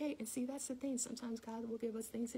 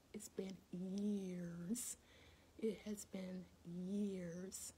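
slow, weighted, with long-held words; slow, candid reflection; sober admission; 2 semitones lower, much slower than usual. Real, not acted. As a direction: let each phrase drag out slowly. Candid admission about her mother.

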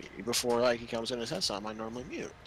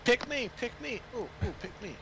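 overeager; 10 semitones higher than usual. Pretend. Begging to be picked.

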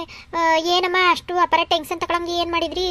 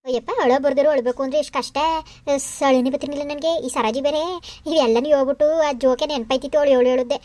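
lightly voiced scheming mother, lower toward the end; sly private aside; 3 semitones lower than usual. Mother privately admiring her daughter's trick, sly private aside. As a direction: confide slyly, relieved to drop the act. Admits the crying was faked.

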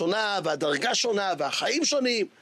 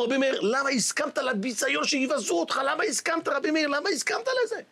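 indignant students; 5 semitones higher than usual. Acted. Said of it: "אמרו".

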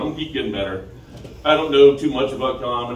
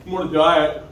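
mocking fat person; 4 semitones higher, 4 dB louder than usual. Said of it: "what every fat person says".

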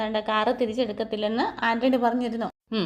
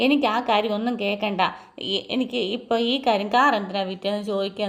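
louder, heated wife's retort; 4 dB louder than usual. Retold or imitated. Wife defending her brother to her husband, heated and louder. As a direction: snap back at him louder, heated. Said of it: "ഇങ്ങനെ ചൂടായിട്ട് പറയേ".

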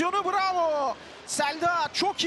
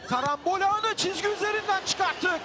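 excited shout; 4 semitones higher than usual. Real, not acted. Goalmouth scramble cleared.

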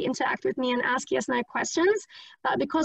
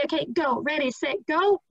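calling start; 2 semitones higher than usual. Shown as a demonstration. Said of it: "and I would say".

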